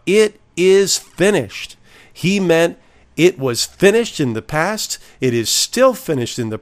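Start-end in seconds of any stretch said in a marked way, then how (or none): 0.1-1.8 slow, raised cry of victory; cried out. Retold or imitated. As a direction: call it out high and drawn out. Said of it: "When Jesus cried out".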